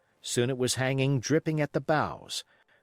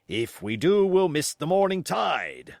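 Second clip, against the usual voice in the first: loud, rising much higher on the tide; cried out; 5 semitones higher, 4 dB louder than usual. Acted. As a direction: protest loudly to the captain. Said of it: "cried Long John".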